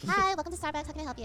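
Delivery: barista greeting. Acted. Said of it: "okay, we're gonna do a scene".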